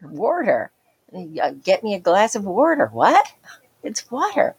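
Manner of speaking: "water" with a clear middle R, "wor-ter". Retold or imitated. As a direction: say "water" with an American R. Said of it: "a middle R".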